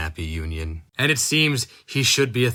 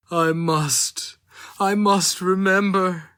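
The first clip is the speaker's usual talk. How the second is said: high, louder, anguished insistence; desperate memory; 10 semitones higher, 4 dB louder than usual. A narrator's reading. Dying man clinging to his memory, high anguished insistence. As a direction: grasp at the memory as it slips away.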